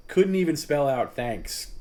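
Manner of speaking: slow, indignant disbelief. Real, not acted. Host repeating the complaint to his audience, slow and incredulous. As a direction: hammer home how absurd the reply was.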